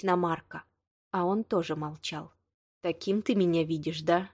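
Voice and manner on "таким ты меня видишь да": ordinary delivery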